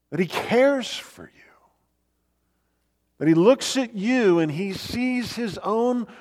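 impassioned preaching. Acted. Preacher tells listeners how the Good Shepherd sees them, impassioned. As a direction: build into a fervent affirmation, punching the key words.

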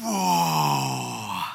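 a long, low, stricken whoa; deflated whoa; stunned whoa. Real, not acted. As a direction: let the words land like a blow. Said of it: "That doesn't feel great".

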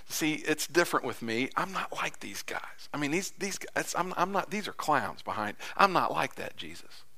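hushed, breathy whisper pleading in private; whispered aside. Retold or imitated. Peter pulling Jesus aside, whispering his devotion. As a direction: whisper it close, as if only Jesus may hear. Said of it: "I don't know whether he whispers this".

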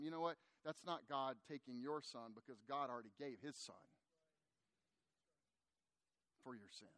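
low, soft, unhurried reassurance; gentle consoling. Retold or imitated. Pastor comforts grieving Chuck about his son, gently consoling.

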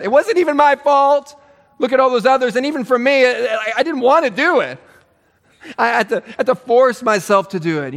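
mock-whiny "I didn't want to"; self-pitying Saul. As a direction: plead innocence like a martyr.

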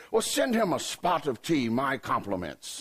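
lightly put-on English accent. Englishman sending Jesus a spot of tea, mock English accent. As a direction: order like a proper Englishman, slowing at the end. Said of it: "from England ... that accent".

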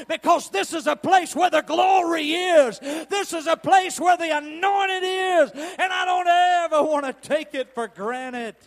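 rising from strong exhortation to high, loud shouting; preaching, building to shout. Acted. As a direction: build it into a revival climax. Preaching builds to full force.

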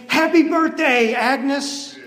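slow, high, drawn-out birthday cheer; crowd shouting. Retold or imitated. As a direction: call it out like a whole room surprising her. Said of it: "They all shout and scream".

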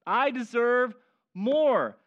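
mock entitled son whining to Dad; entitled whine. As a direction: list what you're owed, sulking. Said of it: "Can you hear it in his voice?".

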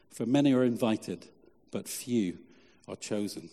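measured, solemn Bible reading; scripture reading. Acted. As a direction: read the passage to the church steadily. Reads the scripture passage aloud.

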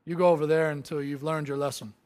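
huffy offended ruler; mock scolding king; pompous shrill tyrant. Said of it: "He's not offended".

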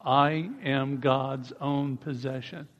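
"I am God's own possession" slow with rising "I"; slow group declaration; steady drawn-out line; slow unison repeat. Shown as a demonstration.

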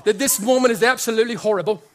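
lightly put-on judge voice, quickened; bad Simon Cowell imitation. Preacher voicing the judging Pharisee as a TV judge, bad imitation. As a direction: do a hammed-up talent-judge verdict. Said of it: "That's a pretty bad Simon imitation".

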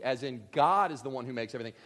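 normal talking voice

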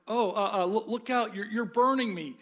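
a scared ghost backing away from the burning angel; frightened ghost. Acted. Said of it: "said the ghost, retreating".

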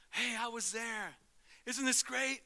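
loud, high, whooping excitement; loud, very high, mock-ecstatic crowd; hammed-up crowd joy. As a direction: cheer like an overjoyed fan. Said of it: "You don't see a lot of joy".

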